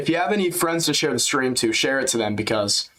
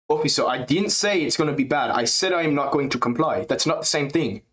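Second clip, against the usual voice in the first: European spin; 3 semitones higher than usual. Retold or imitated. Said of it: "I'm trying to add, like, a European spin".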